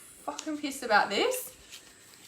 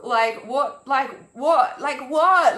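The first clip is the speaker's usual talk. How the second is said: a repeated question that grows louder each time; building exasperation; 6 dB louder, slower than usual. Real, not acted. Ranting to viewers, she gets louder with each "what". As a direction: push harder with every "what".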